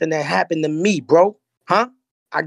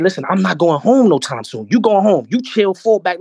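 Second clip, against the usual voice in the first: retold defiant order; 3 semitones higher, 4 dB louder than usual. Retold standoff, ordering godfather back.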